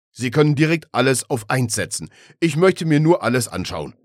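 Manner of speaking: put-on loud, high old-man grumble; Opa Gustav. A narrator's reading. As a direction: insist loudly like an elderly man. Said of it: "klang aber wie sein Opa Gustav".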